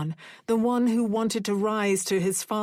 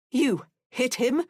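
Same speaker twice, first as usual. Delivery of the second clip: coldly; 5 semitones higher than usual. A narrator's reading. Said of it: "Mother said coldly".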